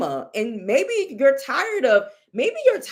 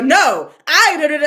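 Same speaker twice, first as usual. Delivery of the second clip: laughing imitation; 3 semitones higher, 9 dB louder than usual. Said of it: "but it was like a".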